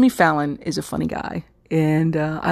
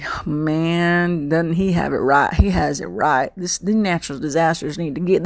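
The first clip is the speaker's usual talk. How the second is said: imitated southern twang, key words stretched; southern accent. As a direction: play up a folksy southern accent. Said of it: "I'm saying it with my southern accent".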